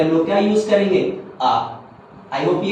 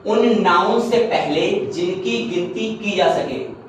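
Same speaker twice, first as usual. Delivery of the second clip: slow and deliberate, spelling out the rule; slow rule dictation; slower than usual. Shown as a demonstration. Teacher dictating a grammar rule, slow and deliberate. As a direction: read the rule slowly for students to note. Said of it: "यानी उन noun से पहले".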